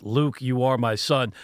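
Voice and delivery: low, quiet Darth Vader rumble; lightly voiced James Earl Jones villain; deep voice. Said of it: "In a deep voice".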